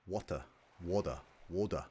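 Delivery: trying out an Australian water, said wɔdə; a viewer practising the Australian way of saying water; Australian accent attempt. Shown as a demonstration. Water in an Australian accent. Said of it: "I wanna be like".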